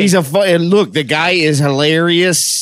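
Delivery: bad Canadian accent. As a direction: stretch it into a mock-Canadian accent. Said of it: "I don't know what accent that was".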